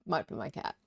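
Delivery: ordinary talk, nothing marked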